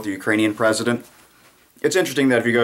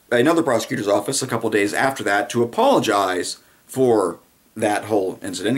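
normal talking voice

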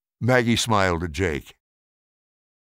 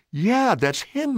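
slow, drawn-out answer; 13 semitones higher, slower than usual. A narrator's reading. Maggie answering about the portrait.

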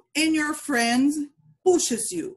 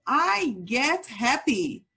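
slow, clear model for repeating; slow model phrase; slower than usual. Shown as a demonstration. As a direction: say it slowly so kids can copy.

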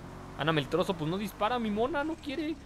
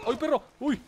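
startled yelp; 8 semitones higher, 5 dB louder than usual. Real, not acted. Startled during game action.

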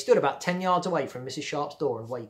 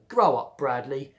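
scolding; 6 dB louder, slower than usual. Acted. Melinda scolds Bradley.

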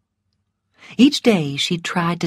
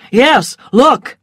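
higher, louder call to look; urgent call; 6 semitones higher, 6 dB louder than usual. A narrator's reading. Rhett alerts the crowd as lists appear, urgent call. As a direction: draw everyone's attention sharply.

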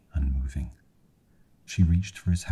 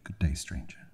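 breathy whispered farewell; 9 dB quieter than usual. Acted. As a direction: whisper it to the stranger. Girl dismisses stranger.

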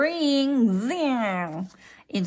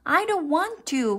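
whining; 8 semitones higher than usual. A narrator's reading. Froggy refusing mother's lesson, high whine. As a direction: whine it in a raised voice. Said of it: "Froggy whined".

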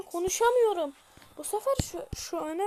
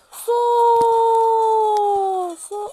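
loud sharp order; shouted command; 5 semitones higher, 14 dB louder than usual. Pretend. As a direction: bark it at the troops. Commanding troops in battle. (yüksek sesli emir)

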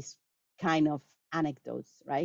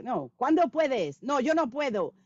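imitating students; 7 semitones higher than usual. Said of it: "It's like".

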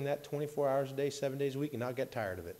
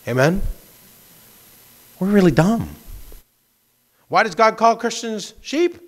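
much louder, fast and driving, pressing the point home; emphatic preaching; 12 dB louder than usual. Real, not acted. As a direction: hammer it at the congregation.

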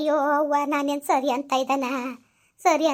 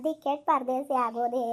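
softer, weepier repeat of ಪರದೇಸಿ; fading sob; 3 dB quieter than usual. Acted. Old mother repeats that she has become an orphan, quieter and weepier. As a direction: let the words sink into weeping. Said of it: "ಅಳ್ಬೇಡ, ಸುಮ್ನಿರಮ್ಮ".

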